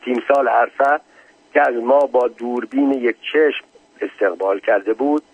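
measured reading of a written memoir; story narration. A narrator's reading. Narrator reads listeners a memoir of visiting the general, formal narration.

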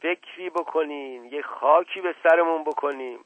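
high, urgent cry for help; shouted plea. A narrator's reading. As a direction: call out in agitation, pleading for action. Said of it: "رو به دایجان کرد و فریاد زد".

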